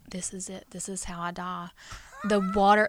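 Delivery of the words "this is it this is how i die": whispered dread. Retold or imitated. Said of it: "I was like".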